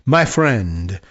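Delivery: a hint of French accent in a read-out message; slight French accent. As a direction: slip lightly into a French accent. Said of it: "trying to do a French accent".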